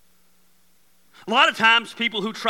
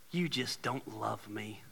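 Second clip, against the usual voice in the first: whiny complaint; 2 semitones lower than usual. Acted. Voicing complaining relative.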